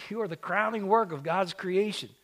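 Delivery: "work" hit hard in a ringing proclamation; preaching full voice. Shown as a demonstration. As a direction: proclaim it to the whole church. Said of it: "repeated after quiet take".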